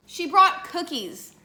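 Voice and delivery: laughing, high mock complaint; mock outrage. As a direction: tease mom with fake outrage.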